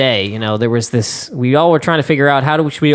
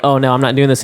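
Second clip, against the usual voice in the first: usual speaking voice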